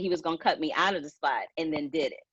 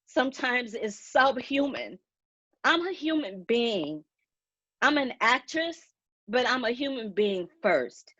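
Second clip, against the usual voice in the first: holding back real tears while speaking up; tearful, halting and pained; crying; 4 semitones higher than usual. Real, not acted. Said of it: "I'm so sorry that I'm crying".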